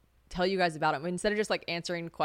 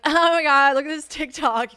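high, loud excited gush; re-enacted excited outburst; excited interruption; 8 semitones higher, 9 dB louder than usual. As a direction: burst in, thrilled to show something off. Acts out interrupting driver with TikTok.

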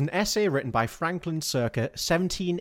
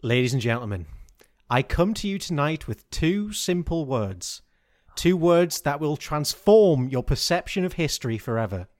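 grand announcement. Pretend. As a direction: announce it like a showman to a crowd.

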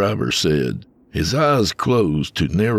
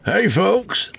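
cheerful; 4 dB louder than usual. A narrator's reading. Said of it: "in a cheerful tone".

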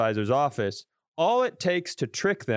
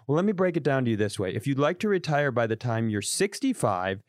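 condescending advisor; 3 semitones higher than usual. Retold or imitated. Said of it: "I was waiting for him to go".

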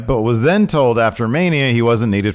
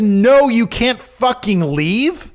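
mock Vince; 10 semitones higher, slower than usual. Vince voiced, outraged retelling.

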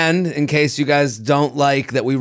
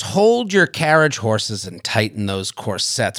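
ad read; 4 dB quieter than usual. Acted. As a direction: read it like a teasing show trailer. Read ad for Netflix show.

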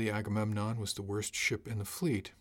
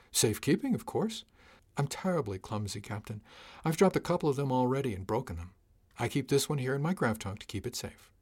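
a hint of a breezy, unbothered crewman excusing himself; cargo chief Wyatt; 2 semitones higher than usual. Cargo chief Wyatt answering captain.

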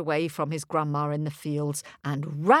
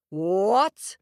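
hollered; 5 dB louder than usual. Acted. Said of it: "hollered the giant".

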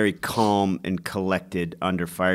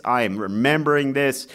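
ordinary talk, nothing marked

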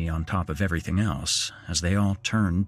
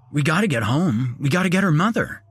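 panicked father; 9 semitones higher, 5 dB louder, faster than usual. Acted. Panicked father, child crying.

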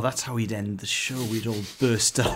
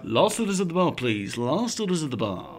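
tired last call shout. Pretend. Pub landlord calling last orders.

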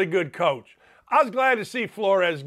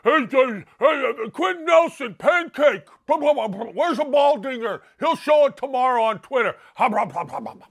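mocking football fans; 4 semitones higher than usual. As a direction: ham up a rowdy stadium crowd heckling a player. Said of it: "You know how football fans are".

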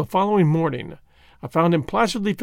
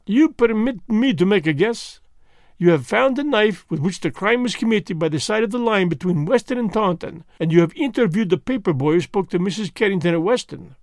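lightly voiced fussy Belgian detective, a bit higher; precise, amused detective explaining his method; a hint of a French-tinged gentleman; Poirot voice; 4 semitones higher than usual. Poirot guesses Japp's findings.

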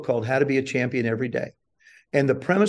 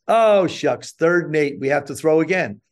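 mock dismay. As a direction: pretend to be sorry, secretly pleased. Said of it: "mock dismay at incomplete pass".

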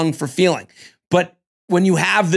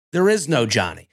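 a hint of a cold movie villain, pitched lower; Ivan Drago; 5 semitones lower than usual. Podcaster quoting Alex from next week's scenes, low mock-villain delivery. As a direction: lightly imitate a low-voiced Rocky villain. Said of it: "He sounded like Ivan Drago".

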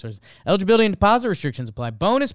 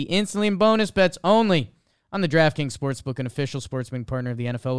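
upbeat sponsor read. Acted. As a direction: sell it like a podcast ad.

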